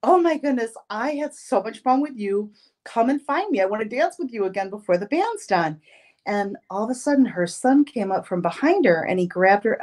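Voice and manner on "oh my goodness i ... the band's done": bright high gush of delight; higher, eager thanks; excited invitation. Retold or imitated. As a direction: gush at her, thrilled to have danced. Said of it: "and I said".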